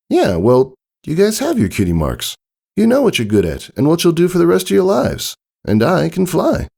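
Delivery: a tomboy filly fumbling for words; Scootaloo, unsure. Acted.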